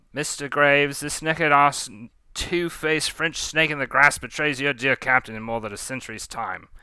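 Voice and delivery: indignant Cockney pirate captain. Acted. Leah accusing Pontou to Graves, Cockney indignation. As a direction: rail at a traitor in a loose Cockney accent. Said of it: "I'm trying to do Cockney accent".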